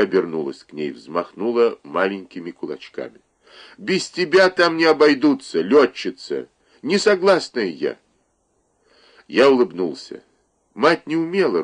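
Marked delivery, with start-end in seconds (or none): 3.8-8.0 high, indignant mother's scolding; a mother's high protest at her daughter's plan. Acted. Mother scolds daughter going to war.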